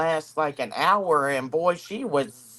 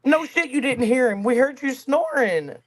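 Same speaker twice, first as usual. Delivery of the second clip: mock retort; 5 semitones higher than usual. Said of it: "And it's like".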